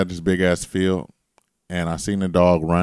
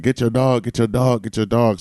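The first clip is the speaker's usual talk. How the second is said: retold yelling; 5 semitones higher, 3 dB louder than usual. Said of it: "I'm screaming at the owner".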